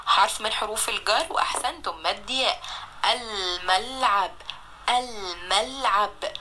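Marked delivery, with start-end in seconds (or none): 3.0-4.3 slow sounding out. Shown as a demonstration. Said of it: "لام قمرية". 4.9-6.3 slow sounding out. Shown as a demonstration. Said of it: "لام قمرية".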